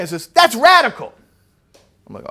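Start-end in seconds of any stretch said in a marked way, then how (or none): 0.3-1.1 loud, high, astonished cry; animated exclamation. Retold or imitated. Subdued study partner suddenly animated, excited high cry. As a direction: blurt it out, thrilled. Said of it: "then he says it again".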